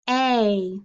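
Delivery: "A" said alone as a long ay sound; isolated vowel sound. Shown as a demonstration. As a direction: stretch out "A" like a phonics drill. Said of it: "Digraph E A".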